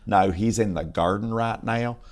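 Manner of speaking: slow Southern drawl of a Carolina lady; lightly acted, drawn-out Carolina accent; North Carolina accent. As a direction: answer slowly with a North Carolina twang. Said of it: "North Carolina accent".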